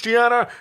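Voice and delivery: Chiana said with a lisp, "tiana". Acted. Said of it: "play a lisp for".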